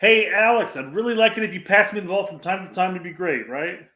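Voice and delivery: mock polite ask with a sarcastic edge; overly polite request. Striker politely asking a teammate for the ball, mock sweet sarcasm. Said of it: "Josh has the angry face".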